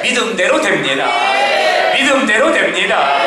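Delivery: 믿음대로 shouted out twice; emphatic proclamation. Acted. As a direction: ring it out to the room. Pastor repeating climax.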